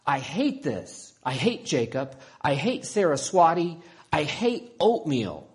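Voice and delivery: put-on a girl's loud tantrum, building; angry yelling. A narrator's reading. Isabella after slamming her door, yelling in anger. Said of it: "And then she yelled".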